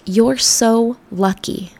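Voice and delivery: slow, drawn-out mock gush; the classic line. Quoting what people always tell her, drawn-out mock gush. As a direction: stretch it out like a gushing fan. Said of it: "Or the classic".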